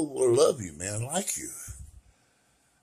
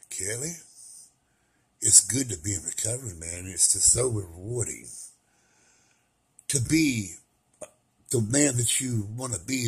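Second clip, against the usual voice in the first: much softer, gentle quoting of a friend; his friend's words; 4 semitones lower, 9 dB quieter than usual. Retold or imitated. Quoting peer specialist Jonah, soft and low. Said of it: "he says it like this".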